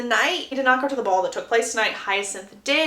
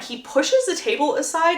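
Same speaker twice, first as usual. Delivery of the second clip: ordinary talk, nothing marked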